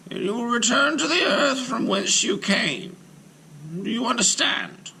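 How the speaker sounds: high, firm voice of a stern rabbi. Acted. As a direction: give the giant his orders one by one. Rabbi replies to golem.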